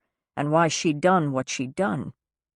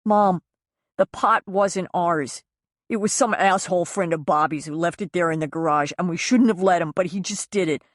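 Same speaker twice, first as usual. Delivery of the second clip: put-on pleading young son; 2 semitones higher than usual. Son begs mother not to judge the mess, pleading. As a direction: beg her to believe him. Son's final plea.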